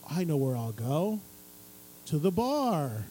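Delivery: mock cheerful decision; a lightly voiced Zach. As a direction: lightly play the drunk friend. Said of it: "it's just like".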